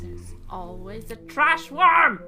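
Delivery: rising, drawn-out mock announcement; playful heckle. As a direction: call it out slowly, climbing to the punchline. Joking heckle at the scene.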